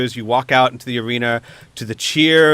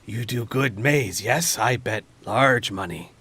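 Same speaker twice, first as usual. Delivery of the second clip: lightly voiced hobgoblin, a little softer; 5 dB quieter than usual. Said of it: "one of the hobgoblins".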